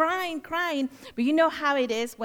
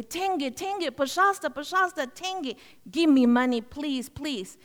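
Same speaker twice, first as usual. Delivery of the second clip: put-on begging children; 3 semitones higher than usual. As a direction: beg like little street kids, lightly imitated. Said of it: "So they would say".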